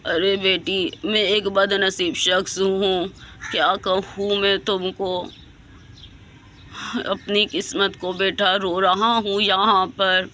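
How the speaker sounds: a lightly voiced grieving old man; sad old man. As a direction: speak like a broken grandfather. Old man answers girl.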